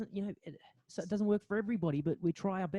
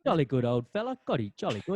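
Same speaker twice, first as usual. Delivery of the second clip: mock posh British; 3 dB louder than usual. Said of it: "This accent, your accents".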